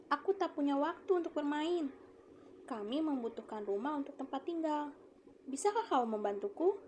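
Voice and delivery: put-on a young man pleading with the apple tree; quoted speech. Shown as a demonstration. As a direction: ask the tree for a favour. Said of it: "ada tanda petik lagi".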